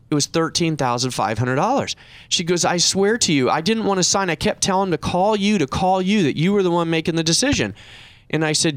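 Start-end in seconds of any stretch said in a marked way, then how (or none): 2.6-7.7 high-pitched imitation of a pleading client; retold tearful pleading. Client swears to her adviser she resisted signing, mock tearful pleading. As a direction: insist in a higher voice, mimicking her upset. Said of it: "just crying on the phone".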